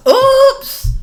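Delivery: laughing oops. Real, not acted. Caught herself cussing.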